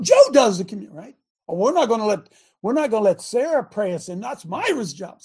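loud, a hint of a touchy church member guarding turf; mildly mock the members who guard their jobs; possessive churchgoer. Preacher mocking members who won't share jobs, loud and possessive.

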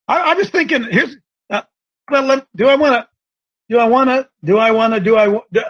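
wired. Real, not acted. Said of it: "Lord wired me this way".

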